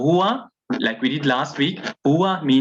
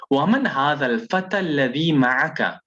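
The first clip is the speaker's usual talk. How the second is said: fluent reading; much faster than usual. Shown as a demonstration. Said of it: "how we would be pronouncing it if we were reading it".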